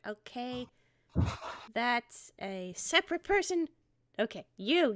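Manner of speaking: put-on earnest scolding boy. Rye scolds the phantom thief.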